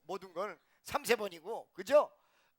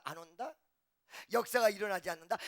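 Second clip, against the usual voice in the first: ordinary talk, nothing marked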